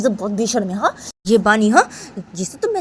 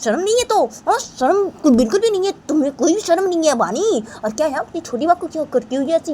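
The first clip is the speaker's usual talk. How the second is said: angry scolding; 7 semitones higher than usual. Acted. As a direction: shame her and threaten to kill her. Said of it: "तो राम से बोलती है बानी को". (ऊँची, गुस्से भरी डाँट और धमकी)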